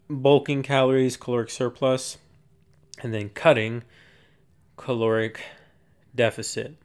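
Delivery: winded, out of breath from cardio. Real, not acted. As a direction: talk out of breath, breath running short. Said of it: "I'm out of breath".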